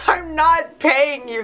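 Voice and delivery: mock-outraged and drawn out; indignant refusal. Acts out refusing the boyfriend.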